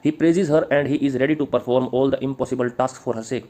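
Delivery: slow, deliberate read-out; dictation. Acted. Teacher reading notes on praise of Helen, slow dictation. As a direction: read it slowly so students can write.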